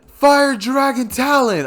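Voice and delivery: high, loud, drawn-out attack yell. Acted. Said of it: "Obviously in a higher".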